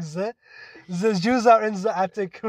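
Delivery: clumsy mock German accent; badly faked German, th turned to z. Shown as a demonstration. Showing a friend how sad their German accent was. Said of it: "that was my German accent".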